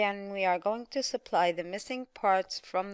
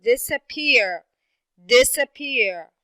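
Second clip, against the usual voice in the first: loud, measured disappear with DIS and PEAR stressed; stress on first and last syllables; 6 dB louder, slower than usual. Shown as a demonstration. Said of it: "the first syllable".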